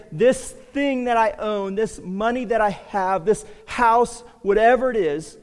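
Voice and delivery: preacher mimicking a hypocrite's excuse; mock Pharisee excuse.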